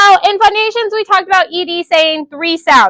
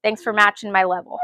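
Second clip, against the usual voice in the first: quieter, lower, after being loud; teacher thanks the class, quieter; drops quiet; 9 semitones lower, 7 dB quieter, faster than usual. Real, not acted. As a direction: pull it right down. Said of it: "I am very loud".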